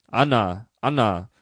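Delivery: calling out. A narrator's reading. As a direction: summon the maid through the hall. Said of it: "rief der Vater durch das Vorzimmer". (der Vater ruft das Dienstmädchen Anna: laut)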